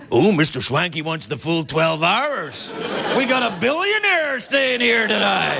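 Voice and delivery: slow, drawn-out mockery of a guest; sarcastic hotel clerk. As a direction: jeer slowly at the fancy customer. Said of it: "the clerk".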